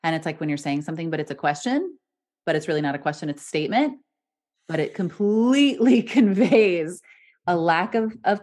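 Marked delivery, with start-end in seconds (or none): 1.1-4.0 statement ending on a rising tune; upspeak. Shown as a demonstration. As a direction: lift the end so question and statement both rise. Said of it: "what's called upspeak".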